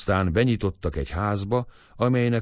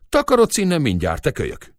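gruff shooing; 7 semitones higher, 4 dB louder than usual. Acted. Old man chases off the boy.

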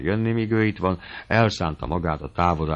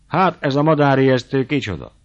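higher, louder, teasing exclamation; mocking outcry; 6 semitones higher, 5 dB louder than usual. Old uncle greeting his former fiancée, mocking outcry. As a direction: hoot at her like a scarecrow. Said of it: "kiáltott fel".

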